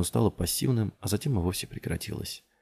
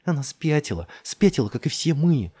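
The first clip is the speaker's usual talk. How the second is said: high, raised, exasperated voice; agitated retort; 7 semitones higher, 4 dB louder than usual. A narrator's reading. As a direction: throw it back heatedly. (взвинченно, на повышенных тонах)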